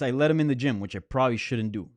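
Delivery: light put-on New York accent; quoting a coach in a New York accent. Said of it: "That, that was my fake, uh, New York accent".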